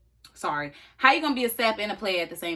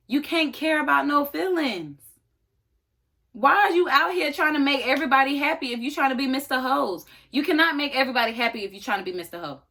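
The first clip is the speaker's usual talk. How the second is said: lecturing rant; 4 semitones higher than usual. Real, not acted. Ranting at the cheating boyfriend.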